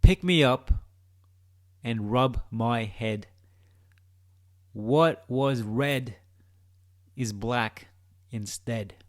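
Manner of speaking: drawn-out, mysterious riddle reading; slow it right down like a riddle; slow riddle recital. Acted. Posing a riddle to viewers, slow and mysterious. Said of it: "And this is the riddle".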